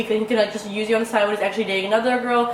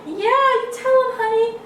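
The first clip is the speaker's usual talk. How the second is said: high, slow, cooing pet voice; 12 semitones higher, slower than usual. Real, not acted. Talking to her dog Coco.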